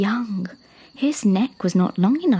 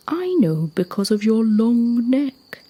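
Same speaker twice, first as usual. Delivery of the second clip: big talking rock; 2 semitones higher, 4 dB louder than usual. Acted. Rock explaining to a little giraffe, lightly voiced giant.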